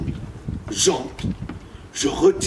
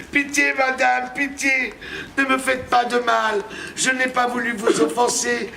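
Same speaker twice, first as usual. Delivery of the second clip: a higher, begging plea that's lightly played; mock pleading; 5 semitones higher than usual. Man on his knees begging the witch not to hurt him, mock pleading. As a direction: beg for mercy, playing it up. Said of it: "je me mets à supplier".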